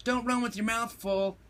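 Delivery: high-pitched motherly call; hollered. A narrator's reading. Mama warns Pickle Pants from the washing, mildly hollered. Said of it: "hollered Mama".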